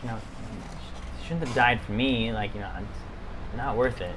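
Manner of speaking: low, soft muttering to herself. Acted. Walking off after news of a death, muttering to herself. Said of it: "You can kinda hear her muttering".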